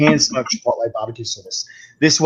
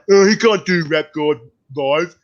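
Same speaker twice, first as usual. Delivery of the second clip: slow, scoffing imitation of sceptics; mock disbelief, drawn out; retold doubters; slower than usual. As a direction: mimic dismissive doubters, dragging the words. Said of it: "people going".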